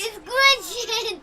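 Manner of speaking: loud, drawn-out glitching cry; excited shout. Real, not acted. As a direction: shout it out slowly, thrilled. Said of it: "Guys, it's glitching".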